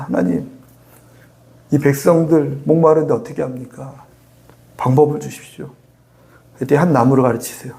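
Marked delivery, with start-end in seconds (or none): 0.0-5.7 low, subdued plea to God; acted prayer. Moses asking God to help thirsty people, acted prayer. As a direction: pray humbly, voice dropped. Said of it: "그때도 기도합니다".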